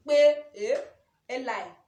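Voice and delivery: loud startled cry; shocked exclaim. Real, not acted. The whole office reacting to the question, loud shocked cry. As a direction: blurt out the shock.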